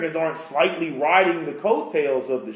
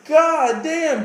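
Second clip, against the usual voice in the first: exasperated exclaim; 9 semitones higher, 4 dB louder than usual. Retold or imitated. His own retold exasperation.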